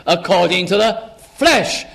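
brief hold, then FLESH punched out; stress on flesh. Acted. Preacher quoting Paul to show his emphasis, stressing flesh. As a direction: lean hard on the last word, flesh. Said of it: "Notice his emphasis here".

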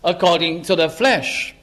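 measured phrase landing on flesh; stress on flesh. Shown as a demonstration. Preacher repeating Paul's phrase for emphasis, stressing flesh. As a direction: set out each word, weight on flesh. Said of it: "Notice his emphasis here".

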